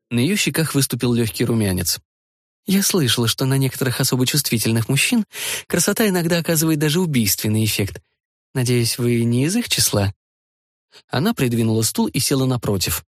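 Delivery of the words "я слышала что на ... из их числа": lightly voiced young woman.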